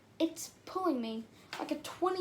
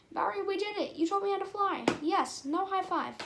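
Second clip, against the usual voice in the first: high-pitched happy relief; elated; 5 semitones higher than usual. Acted. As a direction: celebrate a success with raised pitch. Celebrating the landing.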